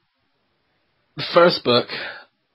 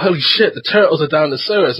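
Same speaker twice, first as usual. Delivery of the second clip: put-on excited kids; 4 semitones higher, 3 dB louder than usual. Other kids' excited cry, retold.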